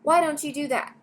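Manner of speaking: lightly voiced grandmother urging gently; grandma coaxing Charlie, high and kind. A narrator's reading.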